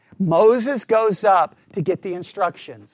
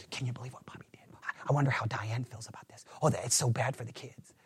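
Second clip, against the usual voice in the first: mock churchgoer gossip, whispered; gossipy whisper; 8 semitones lower, 14 dB quieter, faster than usual. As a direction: whisper the scandal behind a hand. We would be talking like that.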